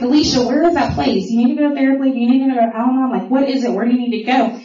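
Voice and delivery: a father pushing for an answer; insistent dad. Retold or imitated.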